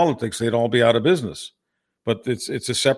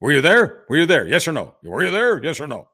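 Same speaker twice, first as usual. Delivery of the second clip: mock heckler; 5 semitones higher than usual. Mocking a heckling politician.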